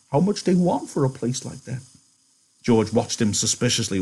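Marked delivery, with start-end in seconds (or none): 0.1-1.8 put-on much higher, quavering old man; old Candy. Candy asking George about the farm, old and hopeful. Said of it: "Candy went on excitedly".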